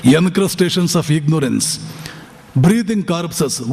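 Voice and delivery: each phrase drawn out very slowly; slow solemn quote. Retold or imitated. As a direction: weigh every word like a verdict. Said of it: "ಅಂತಾರೆ". (ನಿಧಾನವಾದ ಗಂಭೀರ ಉಲ್ಲೇಖ)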